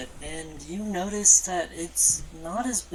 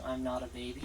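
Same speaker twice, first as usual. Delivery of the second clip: deep dragon voice; 2 semitones lower, 4 dB quieter than usual. Acted. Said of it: "still sound like a deep voice".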